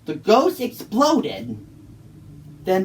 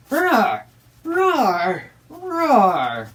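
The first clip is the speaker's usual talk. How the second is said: cross roars; 3 semitones higher, much slower than usual. Acted. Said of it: "made him very, very cross".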